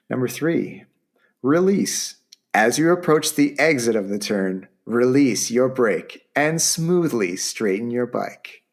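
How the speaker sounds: upbeat sales-pitch read; infomercial voice. Acted. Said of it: "I'm starting to sound like an infomercial".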